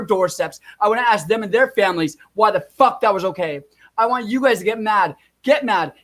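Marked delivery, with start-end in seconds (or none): 4.0-5.9 fired-up urging. Real, not acted. Vlogger rallies his viewers to get mad, fired up. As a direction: whip the viewers up into anger.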